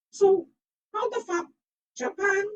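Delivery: high, loud disbelieving outburst; exasperated outburst. Real, not acted. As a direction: blurt it out in disbelief. Baffled outburst.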